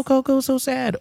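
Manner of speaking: high, mock-weepy gushing; mock gushing fan. Mocking fans who called Coco sad, squeaky high. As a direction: parody people who cried at Coco. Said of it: "when everyone says".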